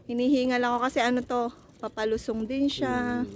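fast, winded explanation; out of breath. Real, not acted. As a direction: talk fast between breaths. (hinihingal habang nagsasalita)

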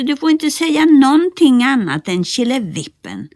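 high, loud call from below; shouted up. Acted. Nisse shouts up to Bertil, high and loud. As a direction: shout the instruction up. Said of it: "skrek Nisse".

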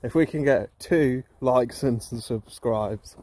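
slow, slurred words; slurred speech. Real, not acted. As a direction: talk with a thick, slurred tongue. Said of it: "please excuse my slurred voice".

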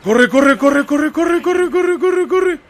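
excited urging. Real, not acted. Urging the character to run.

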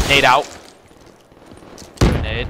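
grenade warning yell. Real, not acted. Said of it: "I said I'm throwing a nade".

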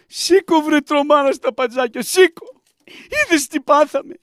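high-pitched urgent call to get up; high, agitated urging; excited rousing. Acted. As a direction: rouse them excitedly, voice pitched right up. Rousing someone once visitor has left.

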